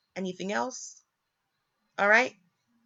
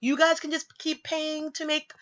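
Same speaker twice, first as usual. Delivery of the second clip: mock-agreeable, pitched up; sarcastic singsong approval; 5 semitones higher than usual. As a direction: pretend it all sounds great. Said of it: "I'm being sarcastic".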